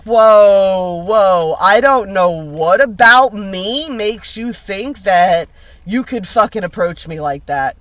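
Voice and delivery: loud, slow indignant pushback; mock offended. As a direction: act out being insulted, drawn-out. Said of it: "it's like".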